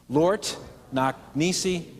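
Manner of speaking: "Lort knock nisi" drawn out word by word; very slow lead. Shown as a demonstration. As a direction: give the room each word slowly.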